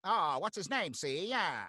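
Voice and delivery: slipping back into the wiseguy voice; a light gangster tag on the question; old-timey gangster. Shown as a demonstration. Still half in the gangster voice while searching for a name. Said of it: "old-timey gangster".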